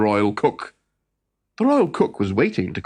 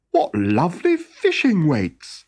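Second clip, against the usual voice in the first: delighted shout; 5 semitones higher, 3 dB louder than usual. Acted. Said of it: "shouted the fisherman".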